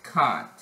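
can't with a broad open ah; British A. Shown as a demonstration. Showing viewers the British A in can't, broad ah. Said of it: "the A's most likely say, like, uh".

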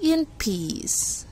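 calm, unhurried sloth; lazy, mellow animal drawl; slow sloth voice. Acted. Sloth character answers slowly.

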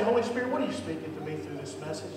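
fast prayer line, rattled off; quick first take. Shown as a demonstration. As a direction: rush through the prayer. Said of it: "just say it like that".

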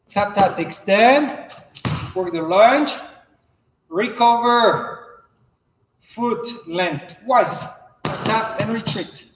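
sharp called drill steps; crisp fencing commands. Shown as a demonstration. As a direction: bark each step like a coach. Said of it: "I will demonstrate".

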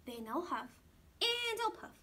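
loud, booming wolf threat. Acted. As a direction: boom it out like the big bad wolf. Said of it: "said the big bad wolf".

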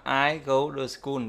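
slow "I go to school", "to" turned into duh; t thành d. Shown as a demonstration. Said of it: "nhớ là đọc là". (đọc chậm, "to" thành đơ)

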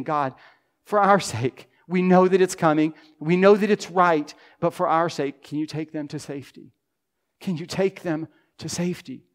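earnest plea that softens at the end; pleading prayer. Pretend. Voices an intercessory prayer.

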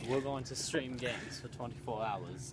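put-on British accent. Telling friend about the charity game stream, in a put-on British accent. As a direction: lay out the plan in mock British. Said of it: "we've decided to speak in British accents".

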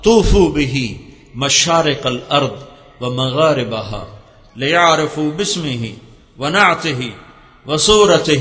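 a hint of a booming divine voice, slow; lightly voiced heavenly call, measured; thunderous voice. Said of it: "آواز آئی بڑی گرجدار". (گرجدار آواز میں ہلکا سا اعلان)

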